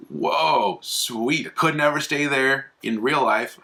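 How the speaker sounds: wowed, lightly acted; mock delight. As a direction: play up being thrilled at the luxury. Acting delighted gambler in retold episode.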